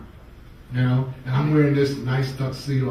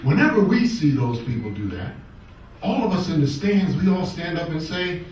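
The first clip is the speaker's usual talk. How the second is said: put-on Australian accent; 4 semitones higher, 5 dB louder than usual. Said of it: "my Australian accent".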